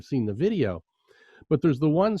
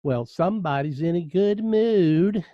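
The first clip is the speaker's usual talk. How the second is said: slow, mock sarcastic drawl; imitating a sarcastic security officer, slowly; 3 semitones higher, slower than usual. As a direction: needle him for being cheerful. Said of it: "in a very sarcastic voice".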